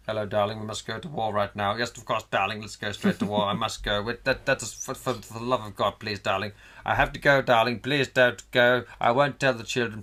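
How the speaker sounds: a hint of wartime film clipped English; old-film posh English. Couple parting for war in old-film British tones. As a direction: play a stiff-upper-lip farewell. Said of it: "they have".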